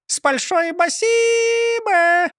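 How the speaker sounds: very high, slow squeaky bird voice; parrot chirp. A narrator's reading. Parrot on shoulder thanking, chirping high. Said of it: "прощебетала Клара".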